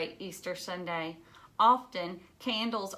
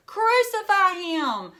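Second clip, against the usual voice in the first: loud, high, slow shout; crowd shout; 10 semitones higher, 10 dB louder, slower than usual. Acted. Enemies shouting to Pilate for Jesus's death, loud slow shout. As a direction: cry it out like an angry mob demanding death. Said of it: "some of them shouted".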